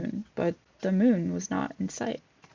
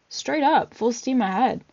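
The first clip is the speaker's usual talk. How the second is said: higher, louder shout of liftoff; excited cry; 4 semitones higher, 3 dB louder than usual. Acted. Sebastian as the ship lifts off, excited cry. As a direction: call out in thrilled triumph. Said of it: "Sebastian cried".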